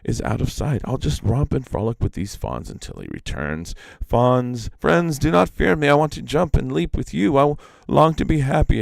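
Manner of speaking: a lifted bird voice, hurrying at the end; Iktomi as the sparrow. Acted. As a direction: chirp it up high like a keen sparrow. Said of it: "he said in his heart".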